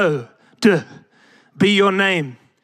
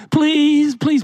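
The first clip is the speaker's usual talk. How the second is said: put-on begging child; 5 semitones higher than usual. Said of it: "begging for simple things".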